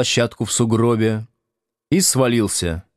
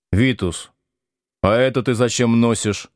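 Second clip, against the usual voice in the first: puzzled; 2 semitones higher than usual. Acted. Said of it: "озадаченно спросил он".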